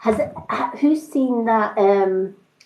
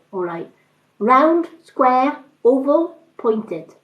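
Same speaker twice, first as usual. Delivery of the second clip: mock Chinese accent, listing shapes higher; a hint of a Chinese accent, brisk and higher; Chinese accent impression; 5 semitones higher, slower than usual. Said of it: "lovely little Chinese woman".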